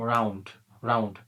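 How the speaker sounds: each রাউন্ড said in one go; one single sound. Shown as a demonstration. Teacher showing round has only one sound, said unbroken. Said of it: "sound কিন্তু একবার উচ্চারিত হচ্ছে".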